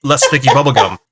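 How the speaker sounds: lightly voiced old-timey pitchman; hint of an eager inventor from long ago; old-time inventor. Inventor pitching a new gum name, lightly old-timey. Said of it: "that's how they sounded".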